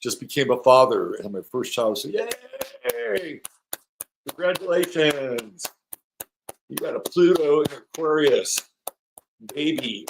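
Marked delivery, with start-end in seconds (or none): 2.1-10.1 high, drawn-out cheer of congratulations; celebratory cheer. Real, not acted. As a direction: cheer for the new parent in a high voice. Cheering a viewer's news of first child.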